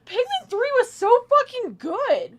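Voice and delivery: loud, high, slow gushing; excited shout. Real, not acted. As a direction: rave about it at the top of your voice. Enthusiastic outburst.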